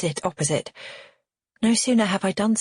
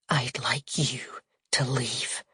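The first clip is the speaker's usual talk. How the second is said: cold dismissal; 5 semitones lower, 5 dB quieter, slower than usual. A narrator's reading. Aunt coldly dismisses nosy niece.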